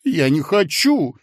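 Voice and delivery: tearful whining protest; whiny cry. A narrator's reading. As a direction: wail it like a crybaby. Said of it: "плаксиво вскричал Коротков". (плаксиво)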